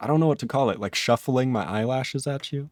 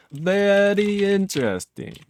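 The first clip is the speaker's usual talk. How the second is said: mock intrigued; 9 semitones higher than usual. Real, not acted. Pleased after fixing the bug.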